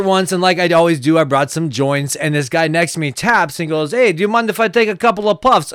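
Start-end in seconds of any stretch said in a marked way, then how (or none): 3.9-5.7 imitated Russian accent; lightly put-on Russian accent, politely asking. Concertgoer asking the next guy for puffs, Russian accent. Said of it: "It's like Russian accent".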